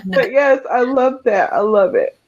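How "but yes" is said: laughing through tears. Real, not acted. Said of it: "I'm not gonna cry anymore".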